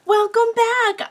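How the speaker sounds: bright, high, bubbly hello; excited greeting. Real, not acted. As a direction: greet the viewers with big energy. Bubbly vlog intro greeting.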